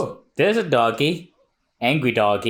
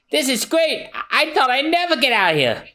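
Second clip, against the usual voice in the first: high and fast, thrilled; overjoyed; 13 semitones higher, faster than usual. Acted. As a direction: rush it out with relief. Luffy freed, overjoyed.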